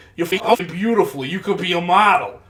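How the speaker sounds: play-acted, aggressive, angry-sounding, hostile delivery. Retelling how a man complimented another man, imitating his aggressive tone. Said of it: "saying this with like an aggressive tone".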